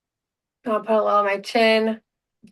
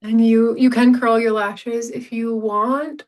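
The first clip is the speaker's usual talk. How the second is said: applying mascara; 3 dB louder than usual. Real, not acted. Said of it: "It's hard to talk and do mascara".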